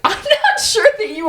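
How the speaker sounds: high, slow, giggly skepticism; laughing mock doubt. Babysitter doubting stranger, laughing.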